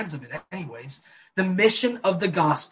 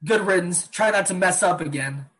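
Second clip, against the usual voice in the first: louder, curt mock send-off; dismissive brush-off; 3 semitones higher, 4 dB louder than usual. Pastor imitating the harsh Jesus he rejects, dismissive. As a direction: wave her away like a nuisance. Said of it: "This wasn't like".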